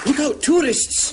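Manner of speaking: high, slow warning call; drawn-out high cry. Acted. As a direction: sing out the warning to the tourists. Calling a warning to tourists.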